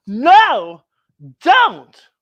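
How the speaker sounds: panic, stop her opening it; scared cry. Acted. Friends begging Buffy not to open the closet, high and frightened. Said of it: "friends scared of closet".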